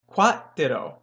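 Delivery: "Quat ditto" run together, like "cuatro"; quat ditto demo. Shown as a demonstration. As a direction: blend "Quat ditto" into one word. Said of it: "now say them both together".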